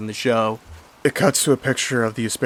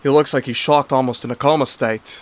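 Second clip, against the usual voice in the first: put-on British accent; 3 semitones higher, 5 dB louder than usual. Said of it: "he said in his British accent".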